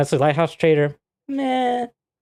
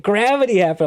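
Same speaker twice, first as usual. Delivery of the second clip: mock-defensive friend; 10 semitones higher, 3 dB louder than usual. Friend's excuse voiced.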